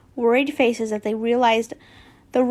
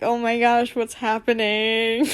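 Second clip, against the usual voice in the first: flustered gasp. Real, not acted. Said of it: "my heart just, like, skipped a beat".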